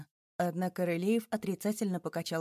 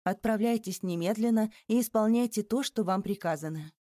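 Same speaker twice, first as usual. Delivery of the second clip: a mock imperious command; police chief imitating the empress's brooking-no-objection tone; 3 semitones higher, 3 dB louder than usual. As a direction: order it, no objections allowed. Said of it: "тоном, не допускающим возражений".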